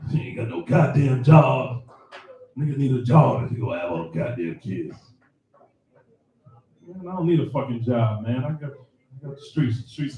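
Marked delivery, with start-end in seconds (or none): 0.1-5.0 mock grandfather. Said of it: "She channeling her grandfather".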